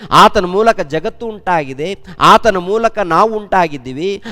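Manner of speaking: full-force preaching. Acted. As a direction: proclaim each line like a rising altar call. Preacher urging praise of God. (ಏರುತ್ತಿರುವ ಜೋರಾದ ಉತ್ಸಾಹದ ಪ್ರವಚನ)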